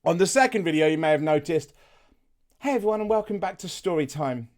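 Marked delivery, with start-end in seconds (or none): 2.6-4.5 gentle, softened intro greeting; softer storyteller voice. Shown as a demonstration. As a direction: ease into it softly, like story time. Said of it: "I changed my voice a little bit, purely because it was softer".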